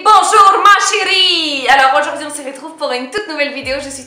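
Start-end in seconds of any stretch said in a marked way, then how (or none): 0.0-1.7 slow, higher, loud and put-on; slow, hammed-up French endearment; mock sultry greeting. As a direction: purr a theatrical "ma chérie".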